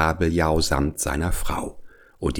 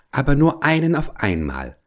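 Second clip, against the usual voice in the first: small clever voice; 7 semitones higher than usual. Acted. Fish bargains with the whale.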